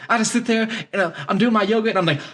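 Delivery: high, airy imitation with long hummed tones; mock talk show guy. Radio host describing his meditation, high mock hum. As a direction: hum through the yoga like a spaced-out guru. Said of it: "He's like".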